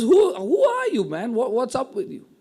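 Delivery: a sneering high squeak on the first words, then a dismissive drop; mocking sneer. Preacher voicing Nabal scoffing at David, a high, mocking sneer. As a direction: scoff at him as if he's nobody.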